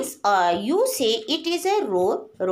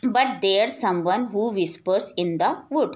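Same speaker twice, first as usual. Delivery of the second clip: slow poem recitation; 4 semitones lower, much slower than usual. Acted. Teacher reading the poem line to her class, slow and measured. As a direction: draw out each word slowly, recitation style.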